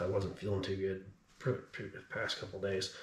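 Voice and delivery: winded and a little weak; out of breath. Real, not acted. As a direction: speak between short breaths. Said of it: "so I'm kinda out of breath".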